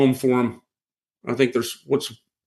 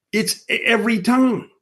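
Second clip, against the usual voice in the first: higher, knowing told-you-so; smug retort; 9 semitones higher than usual. Retold or imitated. Telling the neighbor it happens every year, higher and knowing. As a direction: toss it off like it's obvious. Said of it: "I'm like".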